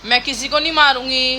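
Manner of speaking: sweet prompting line for her daughter to repeat; feed the little one her apology, gently; coaching the child's words. Shown as a demonstration. Mother prompts daughter to promise, in a coaxing child-like tone. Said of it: "हाँ ऐसे बोल दे".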